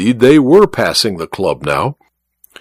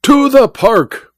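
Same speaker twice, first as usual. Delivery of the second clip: higher, slow grand command; commanding order; 11 semitones higher, slower than usual. A narrator's reading. Malvino ordering the cab driver off, slow and grand. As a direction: give the order like a showman.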